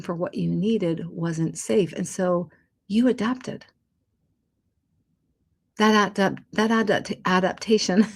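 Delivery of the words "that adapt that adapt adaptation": speaking around a retainer; stumbling over words with retainers in; wearing a retainer. Real, not acted. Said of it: "I have my retainers in, so I'm having a little bit of trouble speaking".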